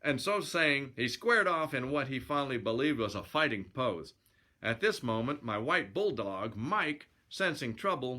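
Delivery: lively yarn-spinning narration; storyteller reading aloud; story narration. A narrator's reading. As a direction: read it as a colloquial sailor's yarn.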